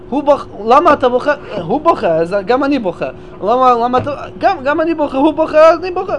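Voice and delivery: copycat mourner. Retold or imitated. Imitates copycat mourner again. (מתאבל מחקה בקול מעט גבוה יותר)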